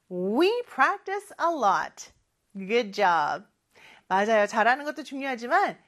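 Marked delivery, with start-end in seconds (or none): 0.1-2.1 higher, projected "We practice a lot"; big voice. Shown as a demonstration. Teacher leading pupils in we practice a lot, big voice. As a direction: say it out brightly for a class to repeat. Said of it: "큰 목소리로 해볼까요".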